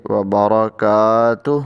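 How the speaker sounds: وبرکاتہ with the last letter made silent for the pause; stop on the final sound. Shown as a demonstration. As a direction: say وبرکاتہ and stop dead on the end. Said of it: "اس کو ہم ساکن کر دیں گے". (وقف کے ساتھ وبرکاتہ)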